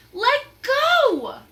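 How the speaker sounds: high, loud shout in his face. Acted. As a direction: yell right at him. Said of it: "Annie shouted in his face".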